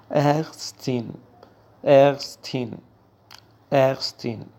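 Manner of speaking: ارستین with a clear -tin ending; correct German pronunciation. Shown as a demonstration. Teacher modelling the feminine doctor word. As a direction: say ارستین crisply.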